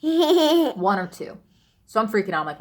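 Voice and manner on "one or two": laughing disbelief. Real, not acted. Laughing at the late hour.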